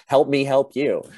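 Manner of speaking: high-pitched mock exasperated plea; pleading instructor. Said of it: "He's like".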